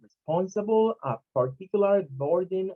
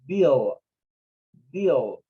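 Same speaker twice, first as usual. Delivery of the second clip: BILL drawn out and falling; stressed syllable BILL; 4 semitones lower, 3 dB louder than usual. Shown as a demonstration. Teacher marking the stressed syllable, BILL given full weight. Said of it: "okay, the stress syllable".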